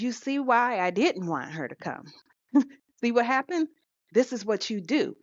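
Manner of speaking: high, exasperated accusation; son blaming mother. Retold or imitated. Son scolding his mother for the fight, voice up high. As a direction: throw it back at her.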